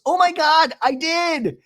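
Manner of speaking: very high mock triumph; Shannon. Recapper mimics housewife announcing success, high mock excitement. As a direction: squeal in exaggerated relief. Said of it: "you hear Shannon goes".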